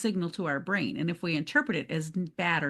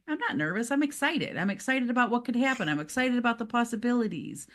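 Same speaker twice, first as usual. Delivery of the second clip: excited self-talk; 5 semitones higher than usual. Acted. Coach models reframing nervousness as excitement, mildly excited. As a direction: talk yourself into mild excitement, pitched up. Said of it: "Reframe that nervousness to say".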